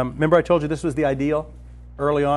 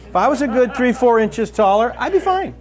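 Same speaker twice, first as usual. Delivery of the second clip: laughing; 4 semitones higher than usual. Real, not acted. Joking about his own height.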